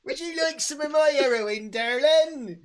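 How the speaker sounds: high, hammed-up Scottish offer; badly faked Scottish, pitched right up; mock Scottish accent. Mocking a supposed Scot, high Scottish accent. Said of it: "with a Scottish accent".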